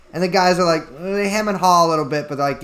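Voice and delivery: ordinary talk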